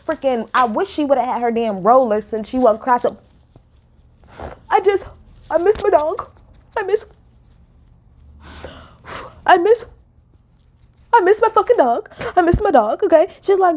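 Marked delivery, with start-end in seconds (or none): 4.7-13.3 mock whine. Mocking Sutton's excuse.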